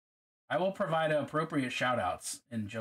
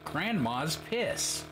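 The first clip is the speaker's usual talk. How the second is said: holding own tongue; much slower than usual. Shown as a demonstration. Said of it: "Say that while holding your tongue".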